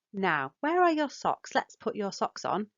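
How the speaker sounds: the wordy version with extra words, unhurried; long wordy instruction. Shown as a demonstration. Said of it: "Rather than saying".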